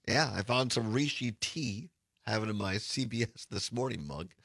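hoarse, smoke-scratched raspy voice. Real, not acted. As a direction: talk through a raspy throat. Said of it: "I apologize for the raspy voice".

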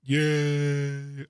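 long drawn-out token yeah; stretched mock cheer; half-hearted cheer. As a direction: cheer on request, barely trying. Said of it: "Can I hear the excitement and the applause and the cheers".

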